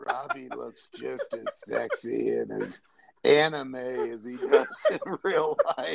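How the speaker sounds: creaky, rough, sleazy, leering creep voice. Mock how he sounds when he just goes in with no greeting, in a back alley perv voice. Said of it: "he sounds like some like back alley perv going".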